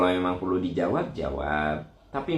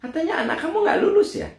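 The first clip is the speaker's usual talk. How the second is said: much higher, laughing busybody voice; nosy gossip; faster than usual. Retold or imitated. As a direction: tease the question like a nosy neighbor. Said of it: "ada juga orang yang memang gitu". (suara tetangga kepo, tinggi sambil tertawa)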